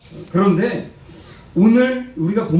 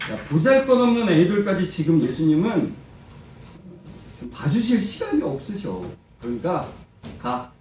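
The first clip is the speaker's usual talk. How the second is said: dismissive disciples; 3 semitones higher than usual. Acted. Disciples scolding children for bothering busy Jesus, dismissive. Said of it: "이렇게 말하는 거예요".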